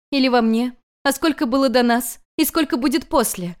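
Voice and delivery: a touch of weeping heroine; sobbing questions. Acted. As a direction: ask through rising tears. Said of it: "Уже рыдая".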